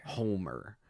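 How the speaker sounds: "Homer" pronounced HOLE-mer, L sounded; pronunciation demo. Shown as a demonstration. Reader clarifying the boss's name, "Homer" said as Holmer. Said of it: "like H O L M E R".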